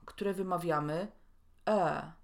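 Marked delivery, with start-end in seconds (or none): 1.7-2.1 e as a long, neutral central vowel; long schwa. Shown as a demonstration. Teacher demonstrating the sound we pronounce, e as long schwa. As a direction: hold e as one long schwa. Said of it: "mamy również długie szła".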